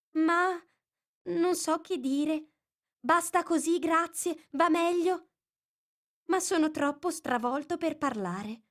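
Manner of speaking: high, lightly voiced squeaky lizard; a dazed little lizard telling his tale; feeble squeaky voice. Bill the lizard recounting his fall, high and feeble. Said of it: "una vocina flebile e stridula".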